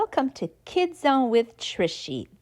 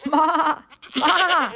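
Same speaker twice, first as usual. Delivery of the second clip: lightly bleated goat ma; a gentle goat bleat; 4 semitones higher than usual. Acted. Reading to kids, a lightly bleated goat call. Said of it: "says the goat".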